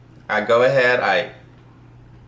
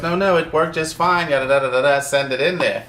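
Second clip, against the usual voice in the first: irritated, raised pitch, insisting it works; brushing off the tester with mild annoyance; a little anger; 5 semitones higher than usual. Retold or imitated. New developer snapping at the QA tester, mildly angry. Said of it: "I'm saying it with a little anger in my voice".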